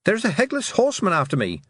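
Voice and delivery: high-pitched cry of alarm; alarmed girl calling out high; urgent shout. A narrator's reading. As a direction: shout a warning, pitched well up. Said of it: "she shouted".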